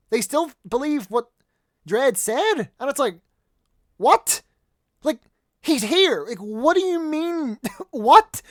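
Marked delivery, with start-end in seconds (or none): 4.0-8.4 high, loud disbelieving outburst; incredulous. Acted. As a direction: throw it out in baffled disbelief, pitch jumping up. Acts out disbelief at plot twist.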